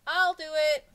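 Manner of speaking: high, loud eager volunteer; schoolboy shouting an offer; calling out. A narrator's reading. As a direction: pipe up loudly to volunteer. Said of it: "Jason called".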